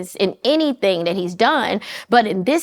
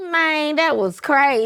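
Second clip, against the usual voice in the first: light Memphis accent; 4 semitones higher than usual. Shown as a demonstration. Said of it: "favorite Memphis slang".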